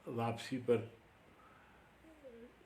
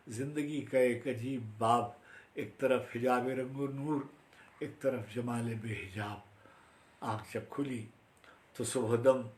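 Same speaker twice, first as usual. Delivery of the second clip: formal mushaira recital; poetry recitation. Acted. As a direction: declaim the verse, then ease off toward the last line. Recites own Urdu poem.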